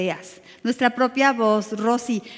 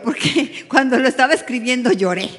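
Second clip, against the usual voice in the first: laughing while telling; 5 dB louder than usual. Real, not acted.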